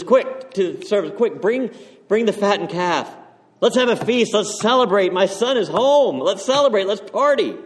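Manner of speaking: joyful father. Acted. Father calling to the servants as his son returns, joyful excited shouts. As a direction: call out to the servants like a thrilled dad.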